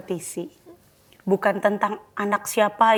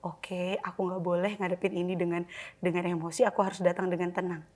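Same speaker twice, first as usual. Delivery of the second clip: calming self-talk; 4 semitones lower, 9 dB quieter than usual. Shown as a demonstration. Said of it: "tenangkan diri".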